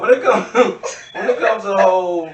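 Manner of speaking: said with a laugh in the voice. Real, not acted. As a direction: push words through giggles. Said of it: "repeats it while laughing".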